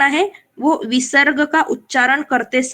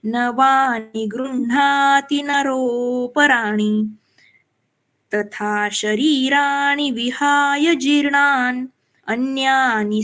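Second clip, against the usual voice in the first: slow, measured four-line verse with pauses; slow shloka recital; much slower than usual. Shown as a demonstration. Teacher recites a four-line shloka slowly for students. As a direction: chant each half-line slowly, pausing after eight syllables. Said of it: "कैसे?".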